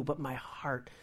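breathy whisper of the key words; whispered, intimate punchline. Real, not acted. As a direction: drop to a whisper for emphasis. Soft sermon climax.

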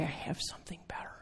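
fast, hushed whisper; soft whisper. Acted. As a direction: whisper it like a gentle secret. Voicing God's gentle offer.

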